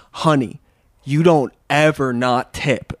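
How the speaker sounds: lightly imitated New Orleans drawl, slow; a hint of a New Orleans woman's accent. New Orleans woman scolding a non-tipper, lightly imitated accent. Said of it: "with a nice New Orleans accent".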